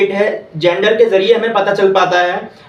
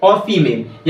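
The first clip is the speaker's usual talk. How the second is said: very slow, every English word spaced out; slow, clear dictation for students to copy; much slower than usual. Shown as a demonstration. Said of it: "फिर से repeat करता हूँ".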